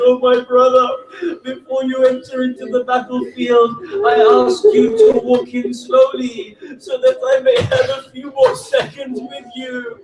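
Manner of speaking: a weeping sister's plea; tearful plea. Acted. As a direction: beg him, close to breaking into tears. Sister's farewell before battle.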